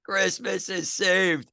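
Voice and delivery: slow, high gleeful proclamation; mock triumphant. Real, not acted. Joking to co-host about his golfer, slow gleeful proclamation. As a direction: announce it like a holiday miracle.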